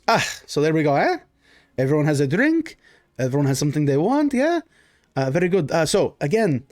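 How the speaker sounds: lightly voiced noble host with rising tags; a touch of jovial baron; Baron, genial host. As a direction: gather the guests for a toast. Baron addresses the table.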